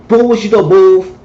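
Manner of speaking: high shouted pet-name greeting; big loud high boo; loud boo call. Retold or imitated. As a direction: holler boo across the room. He greets her loudly.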